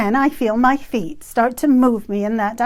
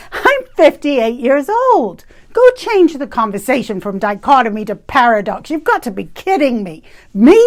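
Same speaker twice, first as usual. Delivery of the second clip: exasperated protest; 5 dB louder than usual. Retold or imitated. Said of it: "I expressed aloud".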